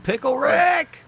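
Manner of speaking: very high, loud cartoon yell; Pickle Rick shout. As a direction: shriek it like Rick. Rick and Morty quote.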